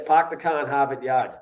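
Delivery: Boston accent, dropped r's; "pahk the cah" in Boston accent. Shown as a demonstration. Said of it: "And the Boston accent".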